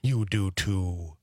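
slow Wisconsin drawl on the vowels; Wisconsin accent. Pretend. Co-host teases about drawing out vowels, Wisconsin accent. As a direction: draw out the vowels, Wisconsin-style.

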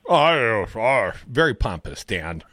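pompous, self-important drawl. Pretend. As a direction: puff yourself up, all pompous. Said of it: "I like to do a pompous voice when I do the Dan voice".

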